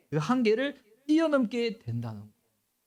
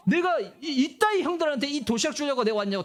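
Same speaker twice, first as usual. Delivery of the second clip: hammed-up high angry rant, raised pitch; mock fury; 6 semitones higher than usual. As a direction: act out an offended tantrum, half in jest. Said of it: "다윗이 열받아가지고". (다윗이 형들에게 화내는 흉내, 높은 목소리)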